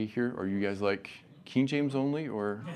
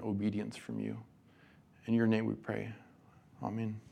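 soft, earnest prayer voice fading softer; 4 dB quieter than usual. Real, not acted. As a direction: pray gently and sincerely. Leads closing prayer.

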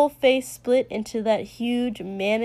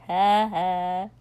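deliberate; 3 semitones lower than usual. A narrator's reading. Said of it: "Kotsky said very deliberately".

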